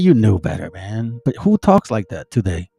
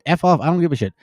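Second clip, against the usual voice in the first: dismissive Cain; 2 semitones higher than usual. Pretend. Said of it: "It, it's like".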